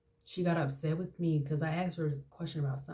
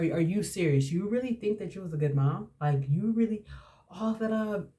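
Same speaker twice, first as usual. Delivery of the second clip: indignant challenge, mildly heated; worked-up retort, not shouted; retold angry confrontation; 3 semitones higher than usual. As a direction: act out telling a parent off. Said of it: "I was so angry".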